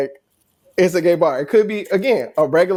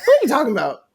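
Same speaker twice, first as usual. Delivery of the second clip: tipsy disbelief; 12 semitones higher, much faster than usual. Retold or imitated. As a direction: brush off the compliment, tipsy. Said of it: "of course, I'm tipsy and drunk".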